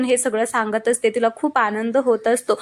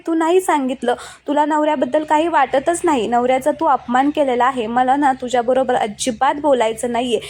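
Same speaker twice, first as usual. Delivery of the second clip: mock-furious rant about the guavas; angry reproach; 3 semitones higher than usual. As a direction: scold her like a hurt, angry husband. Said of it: "तुला राग आल्यावर".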